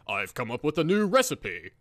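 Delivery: imitating Ignis, a light British butler accent; Cockney butler Ignis. Lightly voiced British chef announcing a new recipe to friends. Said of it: "Is that how he sounds?".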